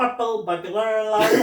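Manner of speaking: "Purple burglar alarm" tripped over with laughter; tricky Scottish phrase. Shown as a demonstration. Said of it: "Do you know what they can't say?".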